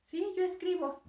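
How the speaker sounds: teacher stressing "yo" as the right reply. Shown as a demonstration. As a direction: punch "yo" in "Sí, yo escribo", high and loud. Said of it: "Tienes que ajustarlo a".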